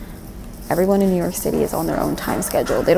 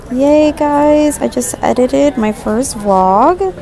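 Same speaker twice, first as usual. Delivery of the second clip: bright happy cheer, louder; excited cheer; 7 semitones higher, 4 dB louder, slower than usual. Real, not acted. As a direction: cheer it out happily. Cheering after editing first vlog.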